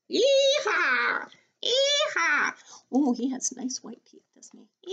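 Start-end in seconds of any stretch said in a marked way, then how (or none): 0.1-2.5 high, whooping cowboy call; yee-haw whoop. Acted. Teacher whooping yee-haw as the farmer.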